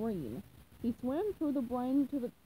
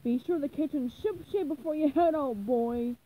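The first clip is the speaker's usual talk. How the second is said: louder, higher yell through the kitchen door; yelling boss; 3 semitones higher, 5 dB louder than usual. Acted. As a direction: bark the order at the boy. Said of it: "to yell at SpongeBob".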